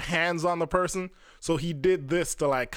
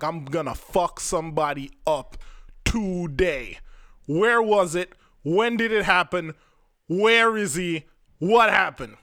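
a touch of a furious father, questions getting louder; dad turning fierce and protective, pushing louder; commando mode dad; 4 dB louder than usual. Retold or imitated. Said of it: "commando mode switched on".

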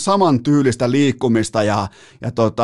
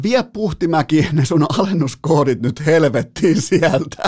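thin-voiced heckle; slower than usual. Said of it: "hihkaisee ehkä vähän liian ohuella äänellä".

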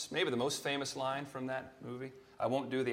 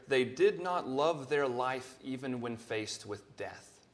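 "They did not love their life even when faced with death" read slowly and deliberately; slow scripture reading; slower than usual. Shown as a demonstration. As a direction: read the verse aloud with measured weight. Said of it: "It says there".

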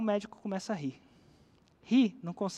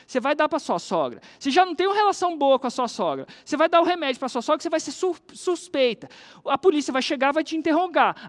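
raised, pressing voice building the case; doctor explaining urgently; 4 semitones higher, 5 dB louder than usual. Retold or imitated. Doctor warns friend, raised and urgent. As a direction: hammer home the danger to her. Doctor lays out the poison plan.

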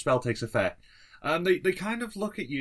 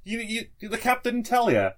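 pirate voice; 7 semitones higher than usual. Acted. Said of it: "it's like".

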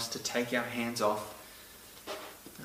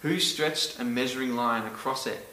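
voicing God; 3 dB louder than usual. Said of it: "he goes".

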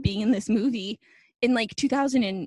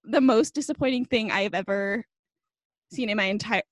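mock outrage. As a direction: overplay the letdown with long pauses. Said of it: "And I was like".

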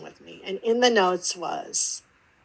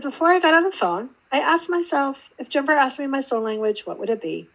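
lightly voiced client, higher and quick; quoting the client; 5 semitones higher than usual. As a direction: retell her words a little higher and faster.

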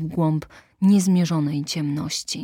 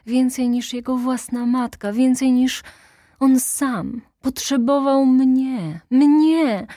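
rising higher and louder to a cry; fiercely possessive grief; passionate outburst; 7 semitones higher, 5 dB louder than usual. Acted. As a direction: build to a desperate peak on mnie. Intended's passionate claim of devotion.

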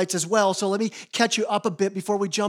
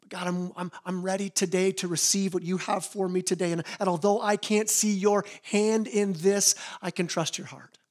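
humble prayer. Retold or imitated. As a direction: pray it gently and humbly. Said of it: "coming to the Lord saying".

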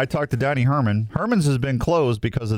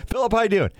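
podcast host greeting; 10 semitones higher, faster than usual. Retold or imitated. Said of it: "And my guest this week".

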